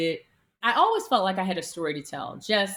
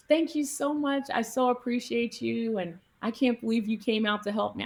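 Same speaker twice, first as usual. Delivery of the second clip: retold tearful gratitude; 5 semitones higher than usual. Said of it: "She just started crying".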